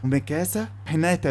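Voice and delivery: slow, lovesick fanboy swoon; lustful swooning voice. Retold or imitated. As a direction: drool over the names like a smitten fan. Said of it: "ونفس الصوت الممحون". (صوت ولهان بطيء على الأسماء)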